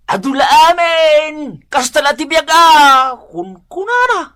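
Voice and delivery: excited exclaiming. Acted. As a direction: throw up your hands and exclaim. Gossiping neighbor exclaims. (nagpigsa a panagriaw ti tsismosa)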